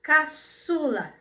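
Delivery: "Caçula" very slow, split before a held "çu"; stress on middle syllable. Shown as a demonstration. Teacher helping pupils find the strong syllable, "Caçula" slowly stressed on "çu". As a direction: break it up as ca, ÇU-la, stretching "çu". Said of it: "Qual é a sílaba mais forte?".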